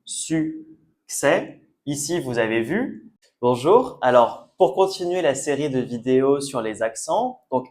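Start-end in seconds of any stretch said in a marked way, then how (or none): 0.0-1.6 "succès" split into two slow syllables, su-ccès; silent final S. Shown as a demonstration. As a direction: break "succès" in two and end on open "è", no S. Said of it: "Ici, c'est succès". (succès découpé, sans S final)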